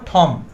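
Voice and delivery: ঠম with a puff after the T; ঠম starting on aspirated ঠ. Shown as a demonstration. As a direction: release the T of ঠম with air. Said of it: "আমরা কি বলবো?".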